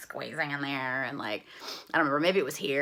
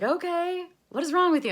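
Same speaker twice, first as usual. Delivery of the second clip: higher, louder baffled agent; 13 semitones higher, 7 dB louder than usual. Retold or imitated. Agent reacts to her crying, baffled. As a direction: play him as confused. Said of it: "He's like".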